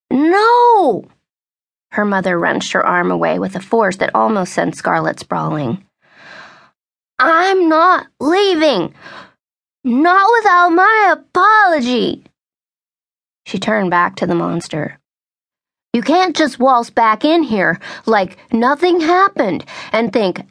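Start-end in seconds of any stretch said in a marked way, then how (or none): 0.1-1.1 loud high shout of no; mother shouts at her daughter, refusing to leave; shouted refusal. Acted. Mother wrenches arm away. 7.2-12.2 much higher, louder, slow and defiant; mother insists on an apology, furious; defiant anger. Acted. Mother refuses, demanding apology. 15.9-20.5 higher, rising outrage; mother berates the boyfriend, angry; berating. Acted.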